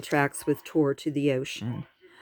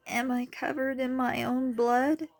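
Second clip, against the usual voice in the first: murmured; 9 semitones higher than usual. A narrator's reading. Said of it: "Charlene murmured".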